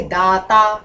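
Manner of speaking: "दाता" at ordinary length and volume; meaning by intonation. Shown as a demonstration. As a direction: say "दाता" as the first, unstretched take. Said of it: "सबके अलग अर्थ हैं".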